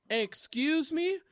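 high, drawn-out affronted question; affronted stranger. Retold or imitated. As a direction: act out an offended busybody, stretching it slowly. Acted offended lady in store.

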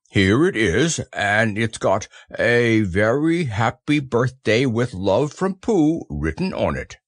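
lightly voiced earnest bear; measured, hearty bear voice; proud Pooh. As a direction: present the gift with simple pride.

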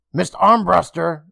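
relieved call across the room. Acted. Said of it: "Emma called out to her".

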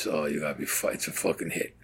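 barely voiced, whispering under his breath; hushed whisper. Joe whispering to him as gunmen enter, hushed. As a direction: tell your partner it's a hit without the gunmen hearing. Hitmen walk in, Joe sees.

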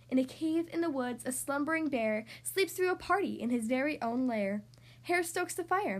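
lively, sing-song picture-book narration; reading to children. A narrator's reading. Podcast host reading a story to young listeners, storytelling voice. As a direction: read it like a bedtime story for little kids.

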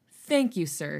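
mock-polite, dry thanks; sarcastic. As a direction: thank him with a sarcastic bow. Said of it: "he said sarcastically".

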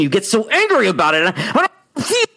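high, agitated mock anger; worked-up anger. Shown as a demonstration. Coach demonstrating anger getting into the voice, high and worked up. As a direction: let acted anger push the voice way up. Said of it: "it gets in your voice".

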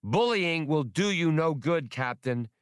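high, squeaky, insistent creature. A narrator's reading. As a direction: plow on, won't back down. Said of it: "in his squeaky voice".

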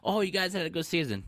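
high-pitched imitation of fans; mock consoling fan. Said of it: "fans are gonna ask".

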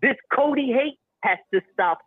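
loud, hyped wrestling promo. Acted. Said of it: "why he cutting a promo".

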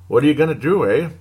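a light put-on Canadian accent with the "eh"; mock Canadian accent. Fan podcaster shrugging off a loss, light mock Canadian accent. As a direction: toss in a half-joking Canadian accent. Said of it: "Pardon my Canadian accent there".

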